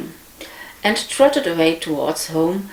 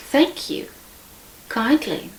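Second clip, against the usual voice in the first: squeaky little pig; 6 semitones higher than usual. Acted. Little pig politely thanks the wolf.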